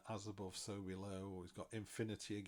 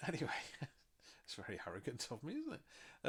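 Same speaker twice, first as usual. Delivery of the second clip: laughing; 6 semitones higher than usual. Real, not acted. Laughing at own arrogance.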